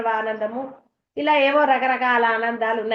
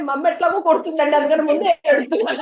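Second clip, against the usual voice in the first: put-on louder, fast, pleading boy's complaint; boy's loud whine; 3 semitones higher, 5 dB louder, faster than usual. Tenant boy telling the speaker why he cries, loud fast pleading. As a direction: blurt it out like a scared boy expecting a beating.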